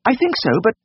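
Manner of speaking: very high, hesitant falsetto; worried lady. A narrator's reading. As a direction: answer unsurely as a fretful lady. Worried lady answering the vet.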